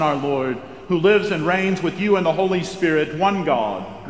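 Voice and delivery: ordinary talk, nothing marked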